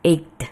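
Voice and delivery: EIGHT as aykt with a small eh after it; forced g. Shown as a demonstration. Teacher shows the forced ending, mispronounced. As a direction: release EIGHT into a trailing eh. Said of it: "belakangnya jadi seperti ada eh-nya".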